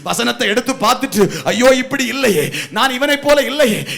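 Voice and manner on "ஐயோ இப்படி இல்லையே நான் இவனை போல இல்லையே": growing louder and higher with each line; mournful prayer building up; bitter lament. Acted. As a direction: confess it with rising grief. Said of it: "அப்படின்னு வசனத்தை நினைச்சு அழணும்".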